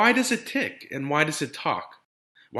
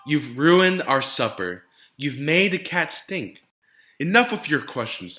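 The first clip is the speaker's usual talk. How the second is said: stern scolding father; 3 semitones higher, 6 dB louder than usual. Acted. Frustrated father scolding Ada.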